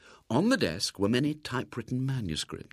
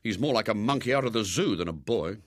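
bitter. Acted. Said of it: "said William bitterly".

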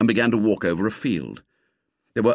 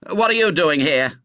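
raised, higher challenge; demanding; 6 semitones higher, 4 dB louder than usual. A narrator's reading. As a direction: confront an intruder sharply. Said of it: "he demanded".

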